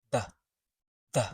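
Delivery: short isolated "the", tongue tip lightly at the teeth; tongue touching teeth. Shown as a demonstration. Teacher showing slight tongue placement, light TH. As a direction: make a light th in "the". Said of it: "just touching the front of your teeth".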